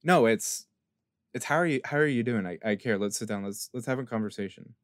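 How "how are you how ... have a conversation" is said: caring. Acted. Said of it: "they care".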